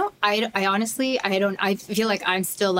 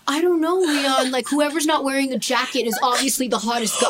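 sassy; 4 semitones higher than usual. Retold or imitated. Daughter voiced answering brother.

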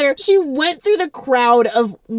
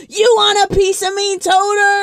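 high, loud dare to a rival; mock challenging scream; 8 semitones higher, 3 dB louder than usual. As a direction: call him out across the room, hammed up.

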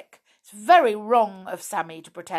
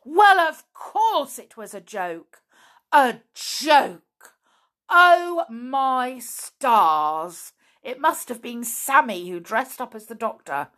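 louder, raised exclaiming; excited realization; 3 semitones higher, 6 dB louder than usual. Acted. Binkle realizing the joke to Flip, excited. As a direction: burst out with it.

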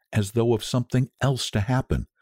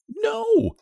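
very high, triumphant cry. A narrator's reading. Wife overrules her doubting husband, triumphant. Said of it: "she cried triumphantly".

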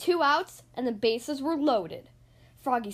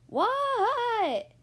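startled reply; 9 semitones higher than usual. Acted. Froggy answering coach.

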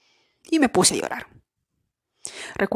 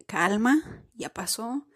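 put-on comforting inner child. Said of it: "abrazar ese niño interior de decirle".

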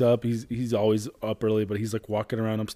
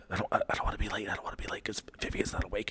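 a hint of a worried little boy, dropping to a whisper; anxious child murmur; 8 dB quieter, faster than usual. Father imitating son fretting about being late, hushed. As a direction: hurry it under your breath like a nervous kid.

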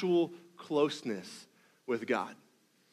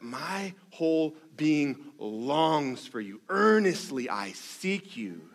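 slow, hushed and aching; heartbroken longing; much slower than usual. Acted. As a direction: pastor voicing David's sad longing. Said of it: "in this very dry, dangerous, sad, heartbroken".

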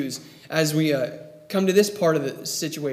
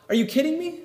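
much higher, disbelieving outburst; can't believe what he's hearing; exasperated disbelief at the crowd's choice; incredulous; 11 semitones higher than usual. Real, not acted. Preacher's incredulous aside.

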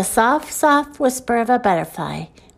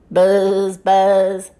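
droning bee buzzes; buzzing bee imitation; 3 semitones lower, 4 dB louder than usual. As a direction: buzz like a bee, holding the z. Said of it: "sound like a bee".

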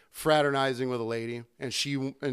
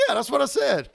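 higher, laughing mock of the customer; laughing imitation; 10 semitones higher, 5 dB louder than usual. Customer insisting to the bartender, laughing and higher. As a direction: laugh through his smug answer. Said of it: "He goes".

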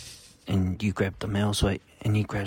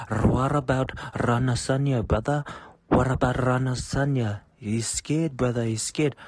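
lightly put-on Indian accent, a touch higher; 4 semitones higher than usual. Indian workmate arguing UFC, mild mock Indian accent. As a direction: mimic a coworker's Indian accent talking fight. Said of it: "I don't know about the accent was necessary".

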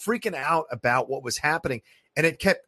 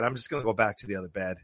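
resigned mutter; 7 semitones lower, 7 dB quieter, faster than usual. Retold or imitated. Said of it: "and I go".

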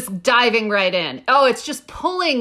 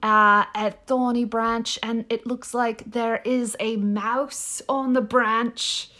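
put-on a barely-there British accent on nature narration; lightly put-on British accent, narrating calmly; faint British accent. Narrating the bird video for her co-host in a faint British accent. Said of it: "I'm not gonna do this accent anymore".

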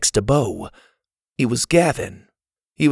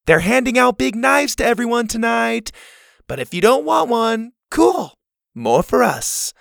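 calling out; 12 semitones higher than usual. A narrator's reading. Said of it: "cupped her hands around the sides of her mouth".

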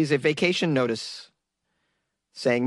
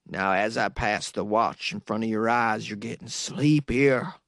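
slow, measured hypnotist patter; hypnotist sheriff; 4 semitones lower than usual. Acted. Sheriff hypnotizing a suspect with a watch, slow and controlled. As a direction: lull the suspect, slowing on the last words.

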